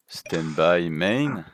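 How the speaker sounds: stretched-out announcer call of the phase; slow phase call. Acted. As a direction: draw it out like a game announcer. Calling game phase, drawn out. (annonce lente et traînée)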